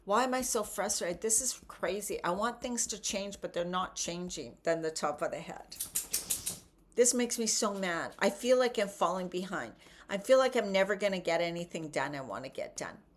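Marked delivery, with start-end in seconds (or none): 0.0-4.6 mock frustrated venting. Shown as a demonstration. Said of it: "yelling because you're frustrated". 7.0-13.0 mock frustrated venting. Shown as a demonstration. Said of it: "yelling because you're frustrated".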